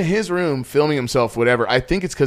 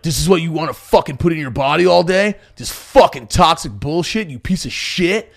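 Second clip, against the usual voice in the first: ranting fitness guy; 2 semitones higher, 6 dB louder than usual. Retold or imitated. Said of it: "he's like".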